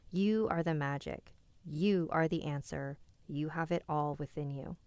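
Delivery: measured, deliberate read-aloud; oracle card reading. A narrator's reading. Reader giving the chat its weekly card message, measured reading. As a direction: read out an affirming message with steady conviction.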